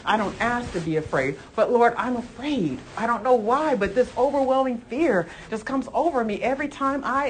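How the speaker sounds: soft, humble plea building slightly in pitch; understated, pleading example prayer; sample fearful prayer. Pretend. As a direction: model a quiet confession of fear to the Lord. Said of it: "And bring it to Jesus".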